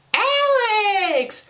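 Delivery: high, drawn-out cry of the name; acted scream. Girl cries out as Alex falls, high-pitched scream. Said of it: "was all she screams".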